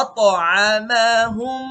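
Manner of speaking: আত with a bouncing echo on the ত; slow আতআমাহুম with a clear qalqalah on ত. Shown as a demonstration. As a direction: let the ত in আত bounce with a small echo. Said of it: "আপনি চেষ্টা করুন আমার সাথে সাথে বলার জন্য".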